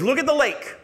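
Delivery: high, loud urgent command; excited girl. Retold or imitated. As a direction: point him to it breathlessly high. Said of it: "She goes".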